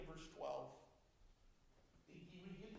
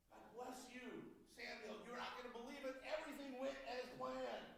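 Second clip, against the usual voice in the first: smug excitement; 4 semitones higher than usual. Retold or imitated. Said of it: "He is full of himself. He is so excited".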